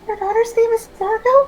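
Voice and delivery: high, laughing-crying question; teary disbelief. Retold or imitated. Meeting a baby namesake, laughing through happy tears. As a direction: choke up with happy tears on the name. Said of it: "legitimately tearing up".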